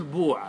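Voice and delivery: بوع with a long "oo" after the b; damma on the first letter. Shown as a demonstration. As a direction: say بوع as "boo-'a". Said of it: "إذا ضميت الباء".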